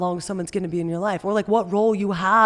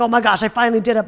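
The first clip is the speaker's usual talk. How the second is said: fast, loud giddy rush; reenacted elation, words tumbling out; on a high; 6 dB louder, faster than usual. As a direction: blurt it in triumph. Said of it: "I was, like, on a high".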